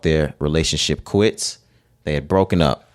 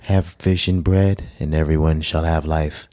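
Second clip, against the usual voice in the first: Jesus; 2 semitones lower than usual. Acted. Mocking how Jesus is always voiced, calm holy voice. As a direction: lightly parody a calm, solemn holy man. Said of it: "it's not gonna sound like that".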